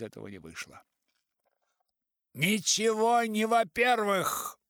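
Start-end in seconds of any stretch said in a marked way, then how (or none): 2.3-4.6 high, loud, slow shout. A narrator's reading. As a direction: cut him off with a shout. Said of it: "кричал пожилой".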